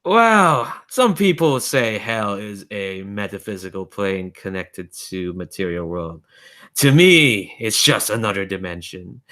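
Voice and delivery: lightly voiced, urbane otherworldly being; amused otherworldly entity. Entity explaining hell to Michael, lightly amused musing.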